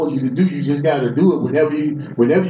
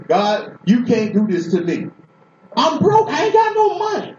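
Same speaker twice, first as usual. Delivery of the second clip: higher, pleading cry to God; desperate plea to God; 4 semitones higher than usual. Retold or imitated. Preacher retelling how he pleaded with God, desperate. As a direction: beg God like you're broke and scared. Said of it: "I kept talking to him just like this".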